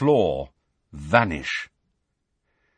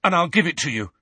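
higher, urgent plea; desperate; 7 semitones higher, 4 dB louder, faster than usual. A narrator's reading. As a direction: beg them to spare the others. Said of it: "said Harry desperately".

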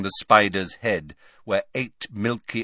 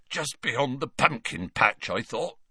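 choked voice; 4 semitones higher than usual. Acted. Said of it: "in a choked voice".

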